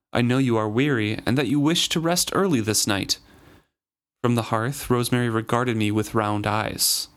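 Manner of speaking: steady audiobook-style read; story narration. Acted. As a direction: read the passage aloud for listeners. Reads book passage aloud.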